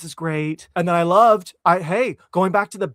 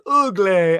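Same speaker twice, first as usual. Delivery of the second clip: loud, punched imitation of a film character; imitated movie line; 6 dB louder than usual. Host quoting the pizza place scene, imitated character voice. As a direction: call it out in the character's voice. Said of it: "before she says".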